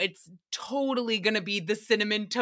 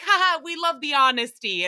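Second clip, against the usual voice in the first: put-on kids laughing it off; 5 semitones higher, 5 dB louder than usual. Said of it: "And they're like".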